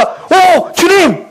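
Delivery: lightly voiced cry for help to the Lord; sick man's half-acted plea to Jesus; mock plea of a sick man. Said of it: "이렇게도 안 했다고요".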